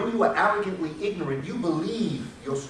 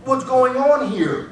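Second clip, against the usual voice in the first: mock bewilderment; 9 semitones higher, 10 dB louder, much slower than usual. Mocking bewildered white supremacists.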